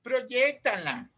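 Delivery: slow, drawn-out instruction; coaching to project. Acted. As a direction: stretch each word out to urge projection. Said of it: "Y uno le dice".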